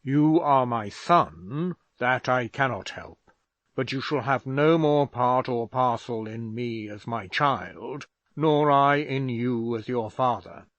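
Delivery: disown him with contempt; father casting off his son in fury; angry father. A narrator's reading.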